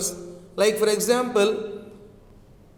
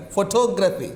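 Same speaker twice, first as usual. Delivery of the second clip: photography stressed on "tog"; stress on second syllable; faster than usual. Shown as a demonstration. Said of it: "So here we say photography".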